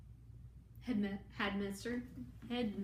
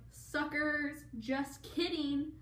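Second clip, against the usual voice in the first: mock gloat; 6 semitones higher, 3 dB louder, much slower than usual. Delphini reveals betrayal.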